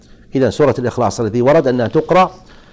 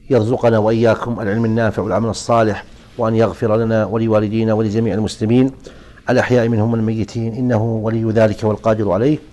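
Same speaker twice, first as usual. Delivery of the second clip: closing prayer; 2 semitones lower, 4 dB quieter than usual. Real, not acted. Closing supplication.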